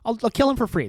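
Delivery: hammed-up rant like an outrageous podcaster; Tim Dillon impression. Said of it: "This is my Tim Dillon impression right now".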